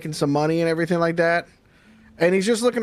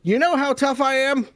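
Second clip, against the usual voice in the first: higher joke-telling voice; comic telling rat joke; 4 semitones higher than usual. Acted. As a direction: hype the rat's toughness. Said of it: "he goes".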